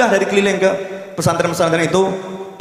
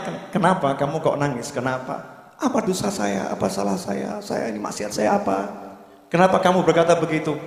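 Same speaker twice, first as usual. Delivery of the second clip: puzzled scholar; 3 semitones higher, 5 dB quieter than usual. Retold or imitated. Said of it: "Kemudian sang ulama bertanya".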